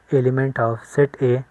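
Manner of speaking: slowly, word by word; slow dictation. Shown as a demonstration. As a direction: read out the symbol slowly. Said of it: "इसको हम पढ़ते हैं".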